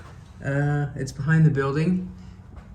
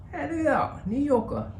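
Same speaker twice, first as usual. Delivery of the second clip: high, playful put-on voice; goofy sign voice; 14 semitones higher than usual. Vlogger showing viewers the sign, high playful voice. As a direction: point it out in a silly voice. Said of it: "I don't know why you talk that way".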